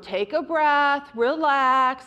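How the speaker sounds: put-on slow, calming words for a child; slow reassuring parent voice; slow soothing to a toddler. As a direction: settle a screaming two-year-old gently. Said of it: "You would say to the two-year-old".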